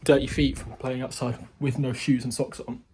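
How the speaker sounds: breathless after the stairs; panting from the climb; out of breath. Real, not acted. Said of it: "Why am I out of breath?".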